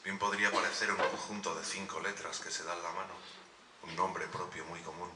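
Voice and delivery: poem recital. Acted. Poet dedicates a poem to the Marías present, poem recital. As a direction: recite it as a dedication, pausing between images.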